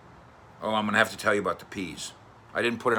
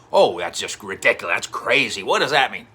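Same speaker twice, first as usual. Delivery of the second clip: mock dismissive; 6 dB louder than usual. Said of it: "fans go".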